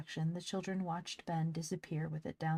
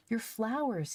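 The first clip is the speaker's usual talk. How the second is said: panting; 7 semitones higher, 4 dB louder, slower than usual. Acted. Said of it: "he panted".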